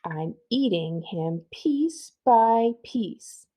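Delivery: very slow, drawn-out menacing witch. Acted. Witch teases the girl with slow, menacing words. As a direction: savour each word like a creepy witch.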